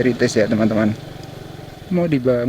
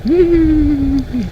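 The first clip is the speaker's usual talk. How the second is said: excited wow; 13 semitones higher than usual. Real, not acted. Impressed by the tea garden view.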